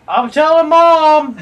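whiny tattling little sibling. Pretend. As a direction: whine it out like a kid brother.

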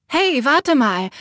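loud, slow call after her. Acted. The narrator calls after her sister as she walks off, loud. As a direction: call out to stop her leaving. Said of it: "rief ich ihr nach".

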